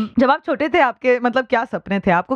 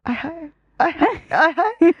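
delighted exclamation; 7 semitones higher than usual. Real, not acted. Interviewer reacts to "love.

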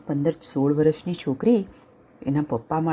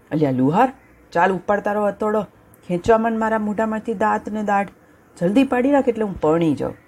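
roaring lion; 6 semitones higher than usual. Acted. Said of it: "ત્રાડ નાખતા".

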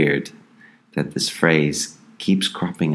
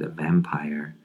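whispered; 5 dB quieter, slower than usual. Acted. Ominous aside about the vampire.

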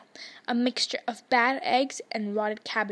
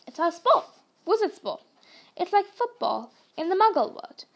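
Hagrid reassuring; 2 semitones higher, 3 dB louder than usual. Acted. Hagrid reassuring Harry about Muggle family, hearty giant voice. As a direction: boom it out like a big-hearted giant.

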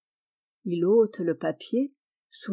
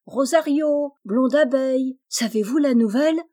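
higher, louder call across the grass; 5 semitones higher, 4 dB louder than usual. A narrator's reading. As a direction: call out to friends. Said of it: "leur crie". (appel joyeux, plus aigu et plus fort)

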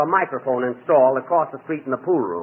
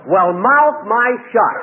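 backwards speech; 7 semitones higher, 4 dB louder, slower than usual. Pretend.

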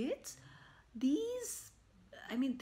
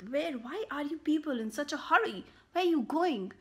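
calling out; 5 semitones higher, 5 dB louder than usual. Acted. Cyclist calls to runners.

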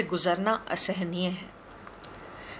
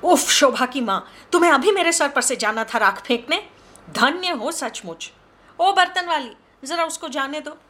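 fed-up mistress scolding the maid; irritated outburst; 6 semitones higher than usual. Acted. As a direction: shoo the maid off in annoyance. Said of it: "चेहरा चिड़चिड़ाहट से विकृत हो उठा".

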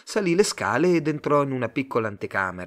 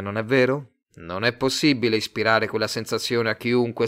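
louder, smooth pushy salesman; salesman Tate; 5 dB louder than usual. Acted. Tate pitching his love firm to Simon, louder slick salesman. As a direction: sell it to him, eager and slick.

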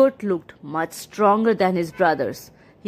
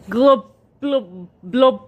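loud drowning gurgle; gurgling cry; 3 dB louder, slower than usual. Acted. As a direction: gurgle as if going under. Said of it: "the troll cried".

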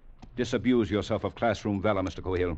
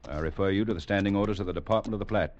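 stern official rebuke. Acted. Commander correcting an eager junior officer, stern and brisk. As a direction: lay down regulations quickly and firmly.

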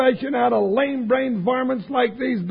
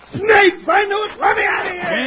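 panicked yelling; 8 semitones higher than usual. Acted. Jingles panics at snakes.

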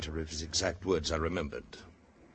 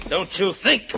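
taunting; 10 semitones higher, 8 dB louder than usual. Acted. Fight, taunting while holding him.

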